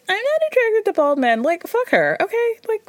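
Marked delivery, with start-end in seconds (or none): 0.1-1.4 mocking girly voice. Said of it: "Any chick who says".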